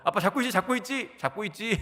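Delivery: scared son calling dad. Retold or imitated. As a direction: play the boy wobbling on his bike, calling back to dad. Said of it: "아빠인 저를 부르면서".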